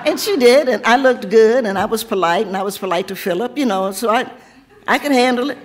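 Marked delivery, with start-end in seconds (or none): 0.1-1.7 laughing. Real, not acted. Laughing about meeting the Queen.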